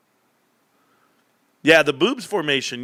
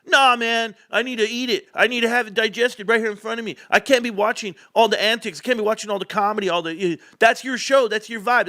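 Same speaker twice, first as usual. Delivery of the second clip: lightly raised, insistent buddy voice; mock buddy whine; 6 semitones higher than usual. Imitating his buddy demanding a plain explanation. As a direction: play the friend who won't let go. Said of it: "buddy's pestering retold".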